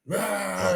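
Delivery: a short high karate yell, half-hearted; mock karate scream. Guard mimics Charlie's karate yell, mock scream. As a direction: imitate a kung fu shout lightly.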